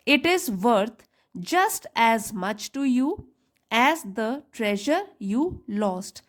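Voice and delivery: very slow, word-by-word read-aloud; teacher dictating the story's line to students. Shown as a demonstration. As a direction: spell the sentence out slowly for learners. Teacher reads story sentence aloud.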